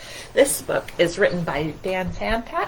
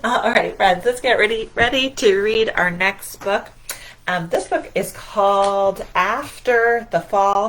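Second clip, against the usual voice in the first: energetic teacher call; 5 dB louder than usual. Real, not acted. Teacher rallying kids to read.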